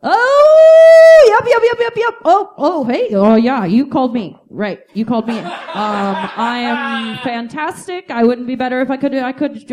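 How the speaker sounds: frantic fake-sober rambling, pitch jumping high; hiding being high. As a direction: sound way too chipper on the phone to mom. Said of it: "my impression of myself trying to cover up how high".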